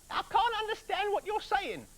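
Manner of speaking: very high, loud wife; eager wife. Acted. Wife asks her husband what to do, very high. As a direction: snap the question quickly. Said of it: "said the woman".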